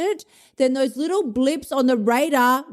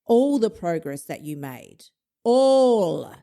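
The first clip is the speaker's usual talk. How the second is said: accusing inner voice; slower than usual. Acted. Inner critic condemns the dieter's slip, grave mock accusation. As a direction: lean hard on a final ALL. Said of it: "this is what it says to us".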